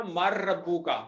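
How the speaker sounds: teacher modelling Arabic; Arabic answer. Shown as a demonstration. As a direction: spell out the words मर रब्बू का syllable by syllable. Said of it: "सवाल क्या होगा".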